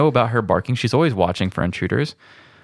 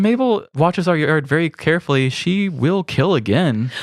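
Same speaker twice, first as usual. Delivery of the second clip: mock ominous; 6 semitones higher than usual. Ominous warning about the dog.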